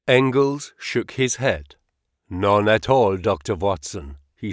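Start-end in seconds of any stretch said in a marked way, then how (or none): 2.3-4.2 put-on light German accent, sober and regretful; a hint of German, mourning a friend without drama. Engels explains Marx's death to Holmes in a light German accent. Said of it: "with a German accent".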